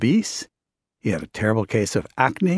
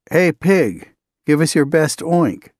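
jeering shout; 6 semitones higher, 5 dB louder, slower than usual. Retold or imitated. Workmen jeering at Larry.

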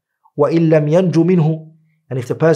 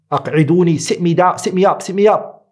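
lightly acted dying man's request, pitched higher; mildly urgent plea; 4 semitones higher than usual. Dying worshipper to his family, a mildly urgent plea. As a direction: press the repeated request with a touch of urgency.

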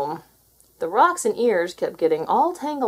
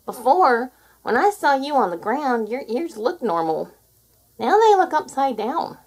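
lightly voiced curious possum, matter-of-fact; a gentle hint of a puzzled possum pointing it out; 4 semitones higher, 4 dB louder than usual.

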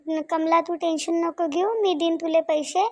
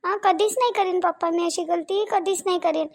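pleading; 4 semitones higher than usual. Acted. Wife begs angry husband to forgive her, pleading high. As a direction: plead as if dreading a beating.

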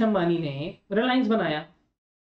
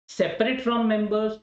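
dictation pace; much slower than usual. Shown as a demonstration. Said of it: "dictating a definition slowly".

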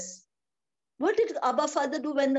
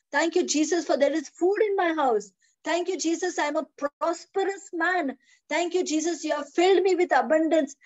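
thankful prayer. Shown as a demonstration. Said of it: "Tell, tell the Lord".

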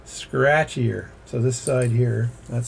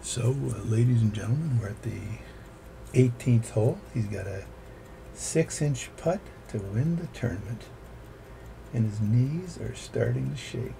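golf commentator; 4 dB quieter than usual. Pretend. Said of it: "I need to use my golf voice".

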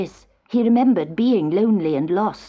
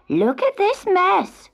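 high, slow, exasperated cry; mild yell; 11 semitones higher, 3 dB louder, slower than usual. A narrator's reading. Farmer's wife finding the tangled knitting, high mild yell. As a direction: cry out in dismay, drawn out and high. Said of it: "she yelled".

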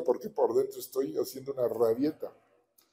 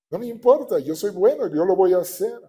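forceful divine voice; 5 semitones higher, 5 dB louder than usual. Retold or imitated. God's voice quoted forcefully.

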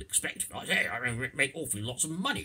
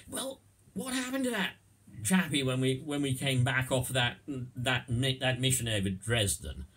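wartime airman; 6 semitones higher, 3 dB louder than usual. Acted. RAF airmen after a mission.

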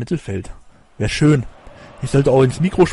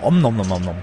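nom nom chomping; 5 semitones lower than usual. Retold or imitated. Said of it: "dann kam immer ein netter Koch".

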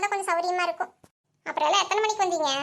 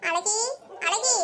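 light call at the door; much slower than usual. Acted. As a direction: call a friend out, name rising at the end. Visitor calls for friend at house.

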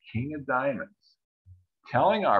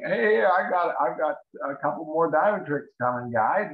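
gloating chuckle; 3 semitones higher, 4 dB louder than usual. Retold or imitated. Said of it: "chuckling away, saying".

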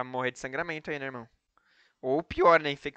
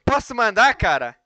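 very loud, slow, much higher villain proclamation; booming echoing villain monologue; 11 semitones higher, 11 dB louder, slower than usual. Pretend. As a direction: declaim like a gloating movie villain. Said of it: "Risada de vilão". (voz de vilão, lenta e retumbante)

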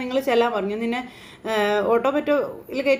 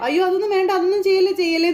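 higher, louder panicked plea; frantic outcry; 7 semitones higher, 4 dB louder than usual. Acted. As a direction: cry out to stop her. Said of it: "Chandramathi അവിടെ കിടന്ന് ഒച്ചയെടുക്കുക". (മകളെ തടയാൻ പരിഭ്രാന്തയായി ഒച്ചയെടുക്കുന്നു)

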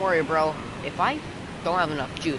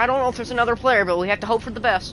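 loud, high, determined; rally hard to save him; intense excited shout; 8 semitones higher, 7 dB louder than usual. Real, not acted. Fighting to save teammate.

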